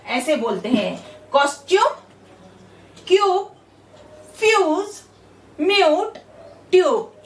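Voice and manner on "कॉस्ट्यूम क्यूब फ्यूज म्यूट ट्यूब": "क्यूब" and "म्यूट" with a long yoo, each word set apart; clear word demo. Shown as a demonstration. Teacher showing students the yoo sound, word by word. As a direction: give each word its own beat. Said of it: "यू का उच्चार यू".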